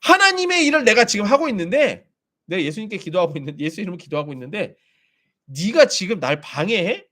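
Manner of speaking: the wife snapping at a ghost during prayer; annoyed rebuke. Retold or imitated. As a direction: tell off the ghost in irritation. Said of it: "짜증이 나더래요".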